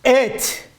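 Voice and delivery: "Do" held, long pause before "it"; slow motion. Shown as a demonstration. Teacher drags "Do" and "it" out slowly to make it clear. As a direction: stretch "Do" and "it" far apart, like slow motion. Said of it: "I'm gonna say it in slow motion".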